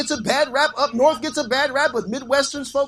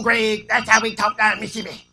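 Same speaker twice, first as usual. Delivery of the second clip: put-on Mississippi accent. Listener explaining the preacher's Southern talk, broad Mississippi accent. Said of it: "folk from Mississippi talk like that".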